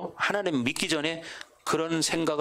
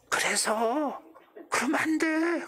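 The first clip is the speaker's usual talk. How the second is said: mock high scolding; 10 semitones higher, much slower than usual. Mocking a scolding voice.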